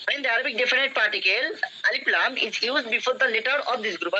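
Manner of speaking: deliberate, slow dictation of the rule; slow classroom read-aloud; slow textbook reading. Shown as a demonstration. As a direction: read each word out slowly for the class.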